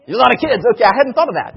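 high, loud laughing reply; amused burst at a funny guess. Real, not acted. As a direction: laugh as you blurt out the answer. Mock grocery line answer, laughing.

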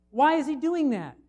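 normal talking voice

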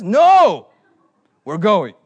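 loud, firm no; stern refusal. Retold or imitated. Driver refuses the little brother, loud and stern. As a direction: shut the request down hard.

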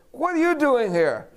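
high, loud startled demand; startled question. Retold or imitated. Cousin caught sneaking out, startled and loud. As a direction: catch him off guard.

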